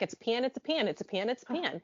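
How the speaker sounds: every "pan" stands for pen or pin, all said identically; Southern pen-pin merger. Retold or imitated. Imitating Southerners merging pen and pin, identical vowels. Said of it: "people from the South will just be like".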